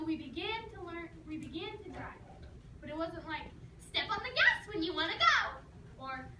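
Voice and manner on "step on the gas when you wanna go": higher, louder instruction voice; mock driving teacher; mock instructor. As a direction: bark it like a simple driving tip.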